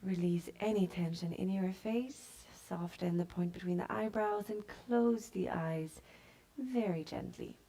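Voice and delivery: calm yoga teacher voice, unhurried pauses; guided meditation. Real, not acted. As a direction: guide them gently into stillness and breath. Leads yoga breathing and body scan.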